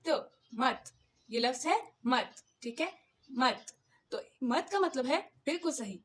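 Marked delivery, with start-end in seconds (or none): 0.0-3.7 मत said slowly, ending on a clear t; slow, clear मत for learners; final t demo. Shown as a demonstration. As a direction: show how छियत turns into t in मत. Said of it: "ये आएगी आवाज़ क्या है".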